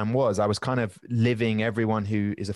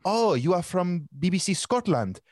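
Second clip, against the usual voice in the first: high, lightly voiced woman asking; a mild imitation of a surprised woman; higher, curious female voice; Italian woman; 8 semitones higher than usual. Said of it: "she said".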